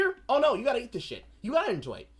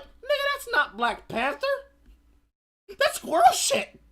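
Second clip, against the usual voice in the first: angry yell; 7 dB louder than usual. Retold or imitated. Arguing with filmmaker.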